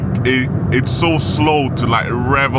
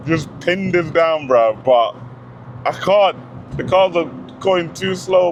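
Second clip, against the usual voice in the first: ordinary delivery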